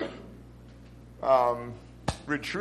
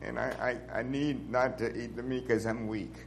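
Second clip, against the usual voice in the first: quiet, humble sincerity; softly sincere brother, truly humble; 2 semitones lower, 5 dB quieter than usual. Retold or imitated. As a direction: say it meekly, meaning every word. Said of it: "he said with sincerity".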